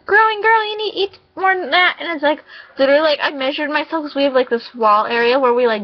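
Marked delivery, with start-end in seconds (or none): 0.1-1.9 imitating grandpa fussing, pitched up; a light mock of a fussing grandpa. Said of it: "And he's like".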